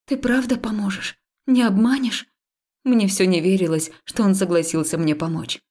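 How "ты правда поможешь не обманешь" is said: hopeful disbelief. Acted.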